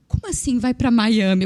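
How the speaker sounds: loud, incredulous question; acted bafflement. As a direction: ask as if you can't believe it. Retells her baffled question.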